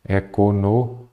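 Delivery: "Economia" in separate chunks, e-co-no, mi, a; syllable by syllable. Shown as a demonstration. Teacher writing the word out, syllable by syllable. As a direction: break "Economia" apart as if writing it out. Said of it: "Vamos separar a coisa daqui".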